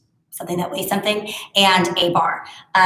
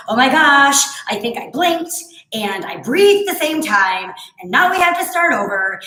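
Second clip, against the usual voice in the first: put-on little boy voice; 4 semitones higher than usual. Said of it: "I hear his little voice go".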